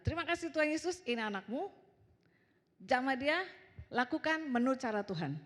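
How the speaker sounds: retold prayer, a little lifted above chat; doa orang tua. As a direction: pray over a defiant child. Berdoa untuk anak yang melawan. (doa singkat menyerahkan anak)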